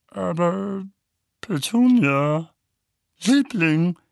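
pleading. Acted. Vernon deflated, pleading.

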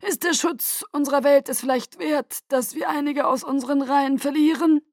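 high, ringing address to the guard; rally the troops grandly; clear commanding voice. A narrator's reading. Aro addressing his guard.

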